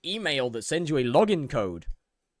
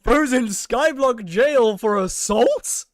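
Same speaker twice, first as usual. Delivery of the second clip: laughing disbelief; 8 semitones higher, 8 dB louder, much slower than usual. Real, not acted.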